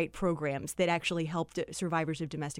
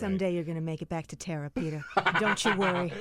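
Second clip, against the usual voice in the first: put-on Southern belle accent; faster than usual. Cohost answers the belle bit in a Southern accent. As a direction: soothe him like a Gone with the Wind heroine. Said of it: "in that accent".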